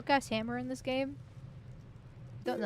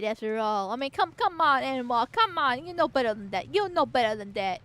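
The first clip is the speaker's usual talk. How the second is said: louder, boastful crook voice; hammed-up swaggering islander; 4 dB louder than usual. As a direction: brag like a cheeky thief. Mock island thief character.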